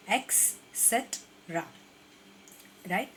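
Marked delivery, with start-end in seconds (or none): 0.1-1.6 Etcetera drawn out very slowly as et-se-tra; careful model. Shown as a demonstration. Teacher slowly modelling etcetera for the class. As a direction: stretch out Etcetera in three syllables. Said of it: "short में हम किस तरीके से pronounce करेंगे".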